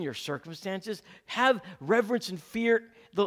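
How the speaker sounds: high, loud pulpit cry; rising sermon fervour; full-force preaching. Acted. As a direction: preach it out to the whole room. Quoting Proverbs with fervour.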